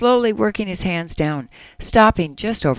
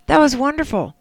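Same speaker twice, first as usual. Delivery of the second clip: higher-pitched, lightly acted loving wife; 6 semitones higher than usual. Wife asking husband why he stopped, lightly acted loving voice. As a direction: gently play a wife's affectionate question. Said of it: "she asked in a loving voice".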